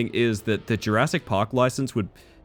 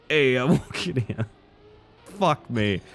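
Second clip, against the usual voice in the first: put-on New York accent; 3 semitones higher, slower than usual. New York cabbie bit.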